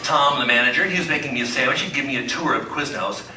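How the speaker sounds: mock sermon in the pastor's voice, building from hushed to big; Pastor Doug impression. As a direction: play the beloved pastor mid-sermon, milking every pregnant pause. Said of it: "this is my impression of you".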